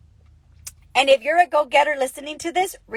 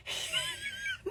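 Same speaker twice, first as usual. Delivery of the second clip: laugh; 17 dB quieter than usual. Real, not acted. Laughing at own story.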